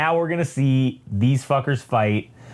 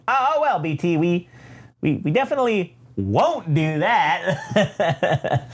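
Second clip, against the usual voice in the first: nervous twins; 4 semitones higher, slower than usual. Acted. Twins nervously answer Vader, retold.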